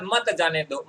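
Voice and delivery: "मत जाने दो" as a separate phrase; set-apart "मत जाने दो"; after the comma. Shown as a demonstration. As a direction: deliver "मत जाने दो" after a beat. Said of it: "comma लगने के बाद".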